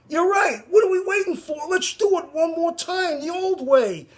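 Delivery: excited as Yarmo. Retold or imitated. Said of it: "Yarmo turn to Jack and say".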